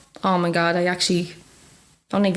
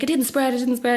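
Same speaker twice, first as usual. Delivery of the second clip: retold excitement; 5 semitones higher than usual. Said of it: "I rang my friend".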